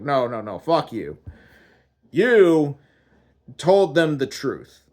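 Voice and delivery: chewing out. Acted. God rebuking the man for telling the truth, indignant. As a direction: cut him off, then accuse. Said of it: "he chews me out".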